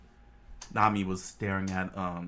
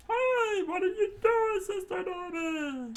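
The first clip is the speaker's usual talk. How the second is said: much higher, louder shout; high shouted protest; 4 dB louder than usual. Acted. Johnny and Yosaku shouting at Nami from the sea. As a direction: yell up at her from the water. Brothers yell from water.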